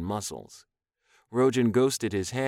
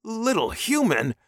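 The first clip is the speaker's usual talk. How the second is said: high, loud, offended echo; indignant hiss; 13 semitones higher, 6 dB louder than usual. A narrator's reading. Captive man echoing alien's insult, indignant. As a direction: throw it back, pitched way up. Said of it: "the man hissed".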